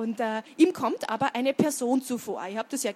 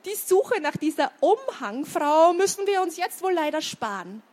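high, raised, breathless urgency; mildly winded, high-pitched boy; panting; 5 semitones higher, 5 dB louder than usual. A narrator's reading. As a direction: keep talking while running away. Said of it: "keuchte Otto".

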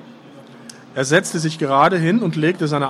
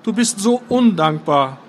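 Fjodor voice; 5 semitones higher than usual. A narrator's reading. Fjodor's long speech.

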